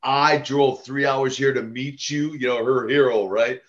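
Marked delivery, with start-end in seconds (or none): 0.0-2.3 slow retold complaint in mild Russian accent; broken Russian accent. Wrestler retelling fan's complaint about her drive, mild broken Russian accent. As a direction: lightly imitate broken Russian-accented English, word by word. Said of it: "she had kind of this broken accent".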